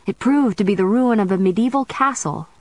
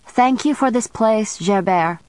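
smooth; 4 semitones higher than usual. Acted. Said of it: "the witch said smoothly".

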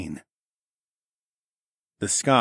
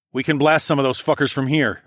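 raised voice; 5 semitones higher, 3 dB louder than usual. Acted. Calling to ally before battle.

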